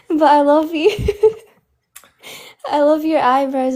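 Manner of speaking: giggling. Real, not acted. Caller giggling through a crush.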